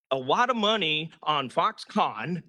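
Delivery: Foxconn with the syllable con pushed hard; stress on con. Real, not acted. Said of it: "I'll emphasize the word con".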